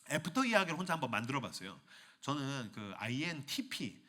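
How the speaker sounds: usual speaking voice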